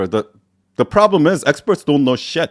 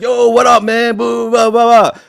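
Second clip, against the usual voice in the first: high, loud mock homeboy greeting; exaggerated bro voice trailing into blah-blah; 10 semitones higher, 4 dB louder than usual. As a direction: imitate hollering at the homeboys. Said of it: "their homeboys, they're like".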